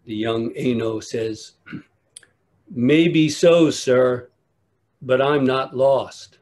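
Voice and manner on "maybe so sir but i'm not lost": put-on louder, plainspoken boy's comeback; loud cheerful country boy. Boy answers the angry monk loud and unbothered. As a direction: land the punchline with country cheer. Boy's calm punchline reply.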